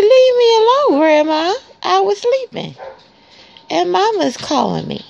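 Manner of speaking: puppy voice. Pretend. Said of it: "He said".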